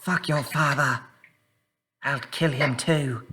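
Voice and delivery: mock angry retort. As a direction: spit back a slow threat while fleeing. Halfling yells back while fleeing.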